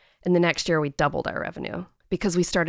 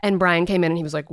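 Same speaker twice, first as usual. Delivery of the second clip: ordinary talk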